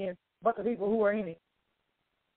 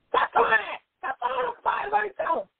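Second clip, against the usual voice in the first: put-on high, raised-voice grandma telling kids off; mock grandma scolding, much higher; 13 semitones higher than usual. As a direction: yell at the kids like grandma with that extra tone. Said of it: "The same way grandma say".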